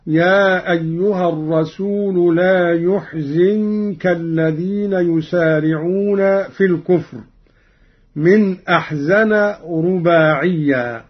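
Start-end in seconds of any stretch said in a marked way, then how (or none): 0.1-7.2 يحزنك with u on the ya and i on the zay; Qalun reading. Shown as a demonstration. Teacher demonstrating Qalun's recitation, يحزنك pronounced "yuhzinka". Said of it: "بضم الياء وكسر الزاي هكذا".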